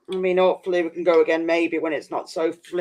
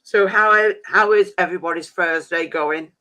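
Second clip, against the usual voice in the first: mouth full; 5 dB louder than usual. Real, not acted. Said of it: "I don't like talking with my mouth full".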